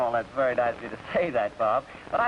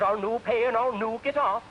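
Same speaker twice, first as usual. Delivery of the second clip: stubborn Scotsman; 7 semitones higher than usual. Retold or imitated. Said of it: "The Scotch says".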